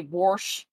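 "warsh" with an added r before the sh; grandmother's pronunciation. Retold or imitated. Player quoting grandmother's local speech, "warsh" with an r. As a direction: say "warsh" with a hard r in the vowel. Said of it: "my grandmother would always say".

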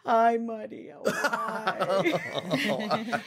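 high, laughing imitation of mom; dramatic mom voice. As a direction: mimic an overdramatic mother, giggling. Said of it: "say it like she said it".

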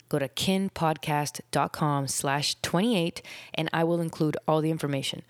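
breathless, pushing through the words; running short of breath. Real, not acted. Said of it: "Whew, I'm out of breath again".

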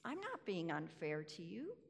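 patient, tender reply; compassionate. Retold or imitated. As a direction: reassure the grumbler kindly. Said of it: "compassionately," he speaks".

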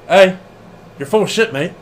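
mock British accent, lightly done; a hint of a British referee calling him out. Podcaster voices Red Shoes scolding Gedo, light mock British accent. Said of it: "If he was British, that's how he would sound".

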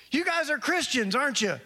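lightly voiced woman asking the question. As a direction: lift the voice to voice her asking.

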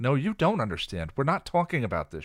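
loud, high furious yell; Buffy yelling at Giles, furious shout. Acted. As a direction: shout him down. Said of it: "she yelled".

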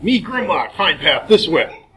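low dumb brute voice; deep monster voice. Acted. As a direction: grunt it like a caveman monster. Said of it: "a deep voice saying".

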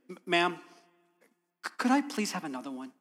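soft, hesitant, halting politeness; timid request. Retold or imitated. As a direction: ask meekly, stumbling on the first words.

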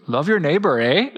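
put-on playful up-north accent with "eh"; northern accent. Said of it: "what kind of accent do you think Jesus had".

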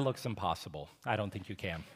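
a half-mumbled doubtful reply. Retold or imitated. Husband mumbling doubt to his wife in labor. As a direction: mumble it under your breath, unsure. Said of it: "I kinda mumbled this".

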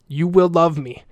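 firm, insistent demand, a little creepy. Real, not acted. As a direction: state it as an order, not a wish. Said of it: "That sounded like a demand".

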